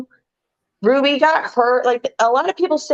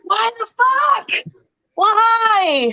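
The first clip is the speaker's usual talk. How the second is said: high, slow cry of disbelief; outraged disbelief; 9 semitones higher, much slower than usual. Real, not acted. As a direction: wail it out in outrage. Outraged at the match result.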